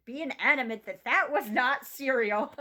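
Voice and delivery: high, loud, laughing retelling; laughing disbelief. Real, not acted. Mom telling viewers about her cereal fight, laughing. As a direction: tell it amused at herself.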